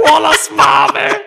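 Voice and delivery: high laughing cry; laughing shout. Real, not acted. Echoing the joke, laughing.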